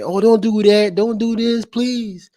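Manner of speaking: high, pleading mimicry of a crying enemy; mock begging. Imagined rival begging him for mercy, mock high whimpering plea. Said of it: "when I see you begging".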